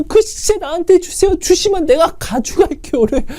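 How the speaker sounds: the plea rising into a half sob; mild crying plea. Retold or imitated. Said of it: "울면서 이렇게 고백하겠냐고요".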